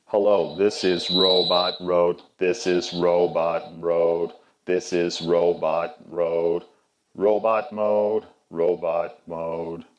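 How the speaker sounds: slow, even robot speech. Shown as a demonstration. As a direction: speak like a slow robot toy. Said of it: "switch it in the middle to robot mode".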